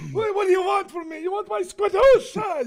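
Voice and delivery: hammed-up exasperated Jewish voice. Mock Jewish voice.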